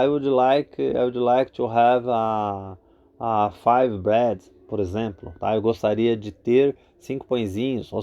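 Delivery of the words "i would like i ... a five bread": slow, deliberate model request; slow teacher model; slow demo. Shown as a demonstration. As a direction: spell out the request slowly. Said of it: "Aí você vai dizer".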